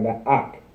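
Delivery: "Ak" ending in an aspirated, echoing k; k with little echo. Shown as a demonstration. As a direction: let the k of "Ak" ring out at the end. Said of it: "You hear that little echo?".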